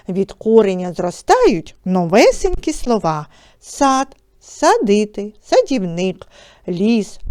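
rhythmic, measured reading of verse; poem recitation. Acted. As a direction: read the verse to children. Reads Nadiia Kyrian's poem. (декламація вірша)

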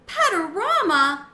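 high, loud, slow squeak with a laugh; a small hamster squealing the name in glee; excited squeak. Acted. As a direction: squeak it out, thrilled and delighted. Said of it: "I squeaked".

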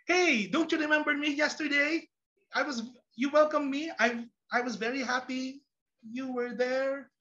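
mock-wounded appeal; hurt teacher. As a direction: plead with a class that forgot you. Hurt teacher questions forgetful class.

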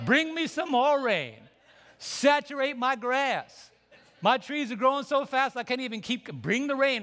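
loud, high preaching cry for rain; fervent shout. Real, not acted. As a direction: call out for the rain like a preacher at full force.

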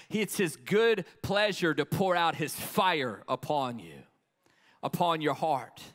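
building, emphatic sermon delivery; forceful altar call; impassioned preaching. Real, not acted. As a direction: urge the congregation toward surrender.

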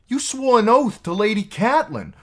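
loud, very high protest; dismayed cry. A narrator's reading. Maid reminding the knight of his oath, dismayed. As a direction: accuse him in a high, appalled cry. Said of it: "she cried, dismayed".

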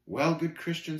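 understated regret; gently resigned; a touch of disappointment; a bit sad. Acted. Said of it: "a bit sadly".

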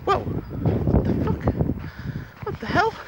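high, slow, whispered astonishment; retelling looking out at heavy snow, mock shock. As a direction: gasp it out in disbelief. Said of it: "I was like".

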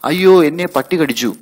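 high, loud yelp of pain; loud, high boy's wail after the bite; bitten boy's cry. Acted. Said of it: "അച്ഛൻ വിളിച്ചു കൂവി".

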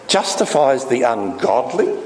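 "Justifies" echoed in disbelief, rising at the end; incredulous question. Shown as a demonstration. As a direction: repeat it as if you can't believe it.

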